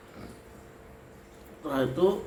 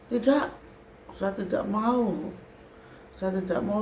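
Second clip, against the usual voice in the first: acted stubborn refusal; 6 semitones higher than usual. Spirit refusing the teller's request to step aside, stubborn. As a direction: dig in with a raised, insistent voice.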